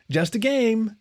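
high, bright soothing puppy voice; calm the chicken like a playful pup; puppy woof. A narrator's reading. A puppy officer soothes the armed chicken, high and bright. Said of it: "she woofed".

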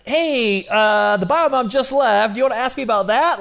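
nervously feeling for the words; awkward high voice. Retold or imitated. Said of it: "how do I bring up, like".

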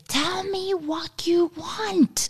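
high-pitched, drawn-out strained yell; retold yell. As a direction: re-enact an exasperated mum yelling, very high and slow. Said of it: "I yelled at him and I said".

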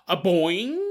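playful boing effect; boing sound effect. Retold or imitated. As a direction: pop it like a cartoon spring. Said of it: "there was a sound effect".

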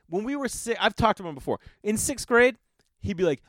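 normal talking voice

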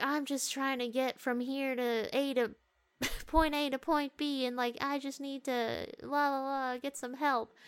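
lightly mock the heroine's old-timey English-girl act. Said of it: "old-timey, you know, English girl".

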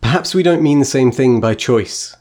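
a lightly voiced, measured witch reading; reading the witch's speech. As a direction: read it like the wise witch queen. Reads Serafina's speech aloud.

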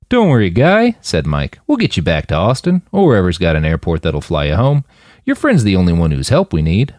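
calm him down casually; reassuring. Acted. Mike reassuring.

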